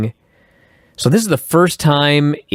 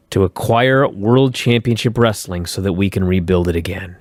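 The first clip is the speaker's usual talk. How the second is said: mild funereal gloom; 5 semitones lower than usual. Retold or imitated. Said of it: "he sounds like he's at a funeral".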